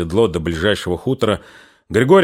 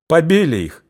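put-on upset young sister; 6 semitones higher than usual. A narrator's reading. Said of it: "В голосе Дуняшки".

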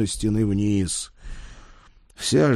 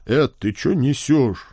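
offended; 4 semitones higher than usual. Acted. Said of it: "даже обиделся я".

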